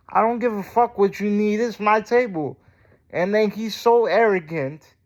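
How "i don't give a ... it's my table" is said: retold heated retort.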